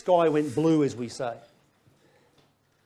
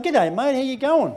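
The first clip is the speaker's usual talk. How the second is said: nervous shaky greeting; a slight tremble, trying to sound casual; friendly hello with a quiver of fear; 7 semitones higher than usual. Retold or imitated. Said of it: "With a little bit of a quiver in my voice".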